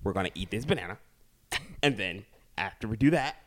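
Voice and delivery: imitating partner talking to baby. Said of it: "that is you talking to Rye".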